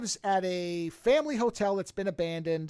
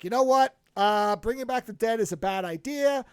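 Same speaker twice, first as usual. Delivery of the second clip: resigned shrug; 2 semitones higher, 4 dB louder than usual. Retold or imitated. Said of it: "And he's like".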